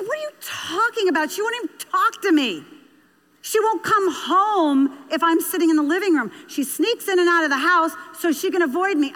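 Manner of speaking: mock indignant dad. Father protesting to the counselor about his silent daughter, indignant. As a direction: voice an incensed father with pitch jumping up. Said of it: "like he was ready to punch me".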